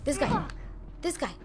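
loud excited yells through the fight; frantic fight yelling. Real, not acted. Streamer yells at enemies mid-fight, loud frantic shouting. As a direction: shout at the enemies, panicking and gloating.

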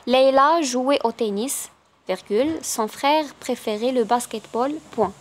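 very slow, naming each punctuation mark; slow dictation reading. Acted. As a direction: dictate it word by word.

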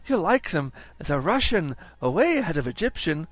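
put-on high, eager boy's voice; boy Edwin. Edwin to Willie in his bedroom, eager boy. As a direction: show off the present.

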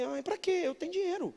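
high, soft imitation of someone brushing off help; mock dismissive refusal. Person in America refusing a gift, mock dismissive.

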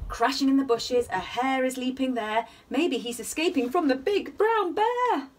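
gentle sing-song bedtime reading; cosy read-aloud storytelling; story narration. A narrator's reading. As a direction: read it like a rhyming picture book for little ones. Reading picture book aloud.

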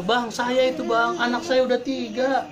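high, slow mock lament; complaining husband. Father of three confiding in an older brother, aggrieved. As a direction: imitate a man pouring out his grievance. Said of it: "curhatan orang tua kayak gitu".

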